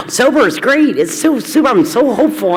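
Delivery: chirpy, high mock optimism; mock cheerful. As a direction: parrot their cheeriness. Mocking cheerful AA people.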